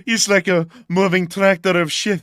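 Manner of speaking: loud, laughing retelling; laughing mock quote. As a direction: crack up while quoting. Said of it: "does this guy sound, like, thirsty".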